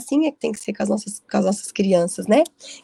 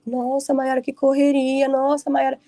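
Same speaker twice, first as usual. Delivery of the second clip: aunt's amazement; 4 semitones higher, slower than usual. Retold or imitated. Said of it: "porque ela fica".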